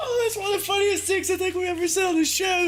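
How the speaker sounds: high, helpless laughter through the words; can barely talk for laughing. Real, not acted. Streamer cracking up at a viewer's joke, laughing.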